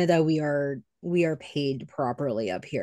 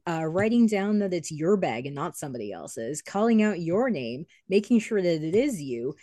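mildly raised, itemised mock rant; indignant sarcasm; 3 semitones higher than usual. Waitress saying what she wishes she could tell a non-tipper, mildly indignant. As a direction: list every chore as pointed proof.

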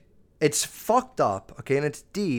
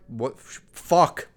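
a quick mock yelled swear; 3 semitones lower, 4 dB louder, slower than usual. Teacher blurting a swear to provoke the class, mock yelling. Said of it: "And I just yell the swear word".

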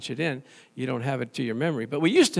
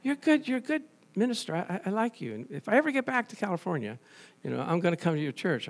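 flattering caller; 3 semitones higher, 4 dB quieter, faster than usual. Retold or imitated. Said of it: "she butters me up".

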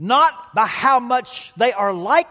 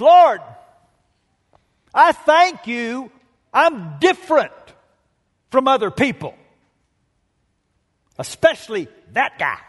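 smug prayer. Retold or imitated. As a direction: pray like you're showing off. Smug Pharisee prays aloud.

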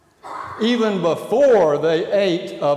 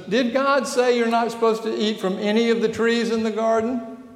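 serpent's question; 6 semitones higher than usual. Acted. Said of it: "and Eve and says".

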